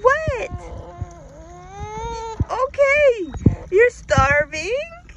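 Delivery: excited talking. Real, not acted. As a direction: gush at the hungry pets. Excited talk to hungry pets.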